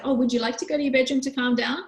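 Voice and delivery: a gentle question with a lifted end; kind, inviting tone. Shown as a demonstration. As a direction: offer the room, don't order it. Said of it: "it's the tone that we're using".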